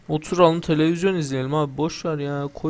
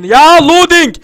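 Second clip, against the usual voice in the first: shouted high and loud at the loading screen; loud yell; 13 semitones higher, 15 dB louder, slower than usual. Real, not acted. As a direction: yell it out in frustration. Gamer yelling at loading screen. (yükleme ekranına bağıran oyuncu, yüksek sesle bağırış)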